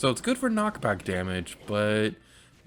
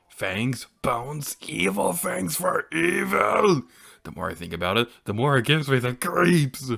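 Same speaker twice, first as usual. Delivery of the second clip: game character; 2 semitones higher, 4 dB louder than usual. Acted. Voices game character's dialogue.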